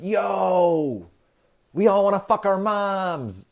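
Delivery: loud, high bro shout; brash shout. Retold or imitated. Freud bursting through the door, shouting loud and high. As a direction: bust in yelling it, high and loud.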